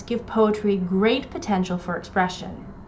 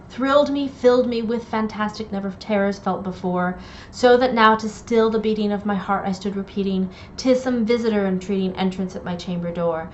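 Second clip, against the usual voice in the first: poem reading. Acted. Reads Poe's Raven aloud.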